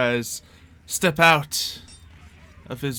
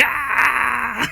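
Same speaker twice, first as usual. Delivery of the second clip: brief, raised goblin cheer; crowd cheer; 10 semitones higher than usual. A narrator's reading. Narrator voices the goblin cave cheering the party on, wild cheer. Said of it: "all the Goblin Cave goes crazy".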